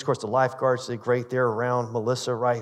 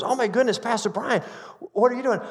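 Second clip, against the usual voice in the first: surprised exclamation; 7 semitones higher than usual. Retold or imitated. Visitor startled to see pastor.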